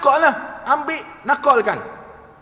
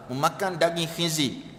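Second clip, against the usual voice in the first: softer, lower voice for the polite word; gentle wording; 6 semitones lower, 7 dB quieter than usual. Acted. Preacher contrasting pork words for listeners, gentle soft version. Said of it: "oh, Ustaz ni lembut".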